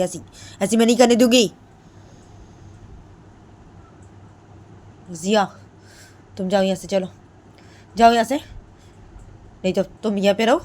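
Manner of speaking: loud, high refusal to leave; defiant shouting. Retold or imitated. Mother-in-law shouting at her husband in defence of bahu. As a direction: shout back that she will not go. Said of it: "तो जेकी बोलती".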